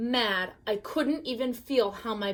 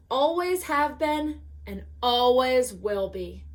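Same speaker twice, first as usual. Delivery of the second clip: sneering; 2 semitones higher than usual. Acted. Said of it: "he sneered".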